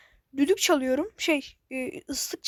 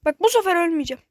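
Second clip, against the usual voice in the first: determined vow; 9 dB louder than usual. Real, not acted. Vowing before a new attempt.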